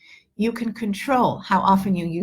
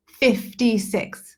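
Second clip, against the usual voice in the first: slow emphatic repeat; much slower than usual. Shown as a demonstration. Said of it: "repeats for emphasis".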